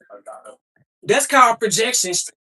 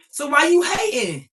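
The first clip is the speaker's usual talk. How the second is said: real shout; 4 semitones higher than usual. Real, not acted. Calling out haters.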